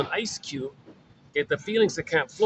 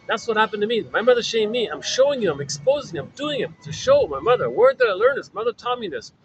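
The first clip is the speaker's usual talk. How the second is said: shaming mother; 2 semitones higher than usual. Retold or imitated. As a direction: play the mother exposing her own mother to the world. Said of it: "as if the mother's saying to the world".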